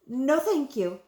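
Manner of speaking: mildly flustered story voice; stammered. A narrator's reading. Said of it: "Helen stammered".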